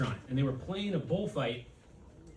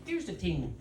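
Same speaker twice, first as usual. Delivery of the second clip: put-on Irish accent, hard t in "ting"; 3 semitones higher than usual. Comic showing favorite Irish word, Irish accent. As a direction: say it with an Irish lilt. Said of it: "in the Irish accent is ting".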